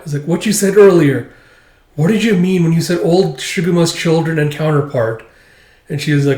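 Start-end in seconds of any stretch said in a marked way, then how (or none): 0.3-5.2 insistent questioning. Acted. Acting out Akane pressing for answers.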